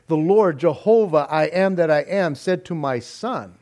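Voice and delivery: "son" held long and stressed. Retold or imitated. Hypothetical David saying it wrong, stressing "son". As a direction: lean on "son" and stretch it. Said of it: "then he would have said".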